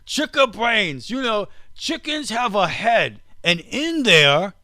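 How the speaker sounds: slow, hammed-up Aussie voice, starting high and sinking; mock Australian accent. Host shows co-host how the rancher talks, in mock Australian accent. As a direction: stretch each word in a put-on Australian accent. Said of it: "do I sound like an Australian?".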